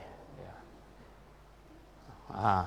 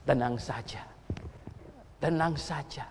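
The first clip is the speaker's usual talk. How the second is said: devil's voice; 5 semitones lower, 6 dB quieter than usual. Acted. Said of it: "iblis bilang apa?".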